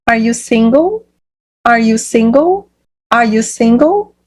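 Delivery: "Are you single?" climbing at the end; rising intonation. Shown as a demonstration. Teacher drills a yes-or-no question for learners, rising intonation. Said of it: "essa entonação sobe".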